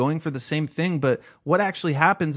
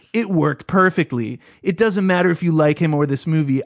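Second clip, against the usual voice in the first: mock troll voice, somewhat louder and emphatic; lightly put-on voice for an online troll; Lucas Lee; 4 dB louder than usual. Reading out a troll's reply to his post, mock troll voice. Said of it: "my Lucas Lee voice".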